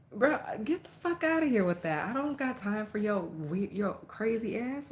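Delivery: sassy get-out-of-here; retold brush-off. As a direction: shut him down with attitude. Dismissing the neighbor.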